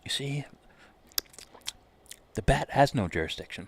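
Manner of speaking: Dark Knight voice. Retold or imitated. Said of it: "as the Dark Knight would say".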